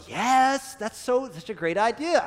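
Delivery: high, loud, delighted yes; eager mom. Retold or imitated. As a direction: gush over the idea like a thrilled mom. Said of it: "mom's gonna go".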